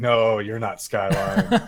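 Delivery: laughing denial. Retold or imitated. Teammate laughs telling the fake he isn't Skyline, laughing. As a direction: laugh it off in disbelief. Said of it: "I was like".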